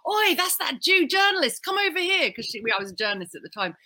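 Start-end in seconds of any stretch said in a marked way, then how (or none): 0.1-2.3 A singer. Retold or imitated. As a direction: call out like a brash London party girl. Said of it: "she was like".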